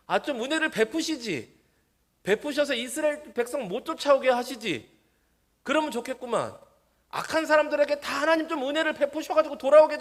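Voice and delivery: high, loud grumbling protest; acted complaint. Preacher voices doubters asking why grace was withdrawn, loud high-pitched complaint. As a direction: plead loudly as if second-guessing God.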